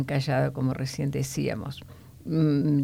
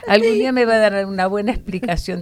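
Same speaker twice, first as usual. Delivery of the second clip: laughing while talking; 5 semitones higher, 8 dB louder, faster than usual. Real, not acted. Laughing after the joke.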